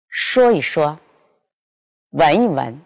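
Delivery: 一 in 说一说 and 闻一闻 said short and light, without tone; unstressed toneless 一 between the doubled words; neutral tone yi. Shown as a demonstration. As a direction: slip the middle 一 through lightly. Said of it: "一加在重叠词中间变轻声".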